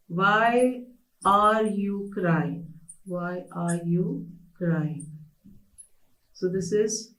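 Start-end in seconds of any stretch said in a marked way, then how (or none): 0.1-2.7 "Why" lifted, "are you crying" slow; drawn-out teaching example, mildly concerned; slow example question. Shown as a demonstration. Teacher giving a slow example question to students. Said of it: "You will be using the word why". 3.1-5.1 slow repeat. Shown as a demonstration. Teacher repeating the example question slowly. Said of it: "You will be using the word why".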